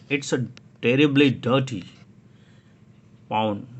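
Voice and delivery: firm grown-up. Acted. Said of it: "बड़े क्या बोलते हैं".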